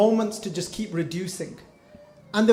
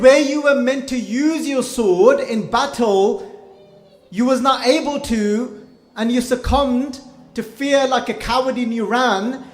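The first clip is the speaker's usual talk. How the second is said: stern rebuke; 3 semitones higher, 4 dB louder than usual. Acted. Guru rebukes the frightened king.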